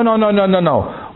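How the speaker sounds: mock-alarmed string of refusals; acted hasty refusal. Preacher acting out refusing a wayward thought, hasty refusal.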